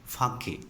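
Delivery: "fake" pronounced fa-kay, in two syllables; "fake" with a sounded final -ay; shown pronunciation. Shown as a demonstration. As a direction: teach "fake" as the drink's name, FAH-kay. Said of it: "but it is pronounced as".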